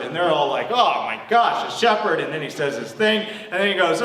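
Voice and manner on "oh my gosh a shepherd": mildly scandalized listeners, voice lifted; mock shock. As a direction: imitate a crowd's dismay, slightly raised. Listeners' shock at the word shepherd.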